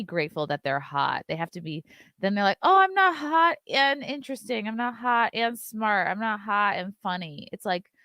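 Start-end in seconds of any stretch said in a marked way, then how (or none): 2.6-7.5 mock whiny. Mocking complaints of hot girls.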